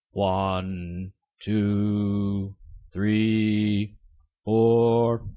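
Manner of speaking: slow, dramatic vampire count. Retold or imitated.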